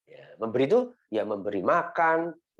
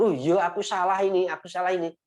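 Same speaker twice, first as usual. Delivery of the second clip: put-on child admitting fault; 7 semitones higher than usual. Child realizing mistake, acted.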